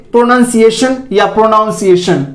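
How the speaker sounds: first "प्रोनाउंसिएशन" as pro-nun, second as pro-noun; pro-nun-siation, then pro-noun-siation; two mispronunciations. Shown as a demonstration. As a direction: say "प्रोनाउंसिएशन" both wrong ways, full "pro" each time. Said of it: "गलत उच्चारण है".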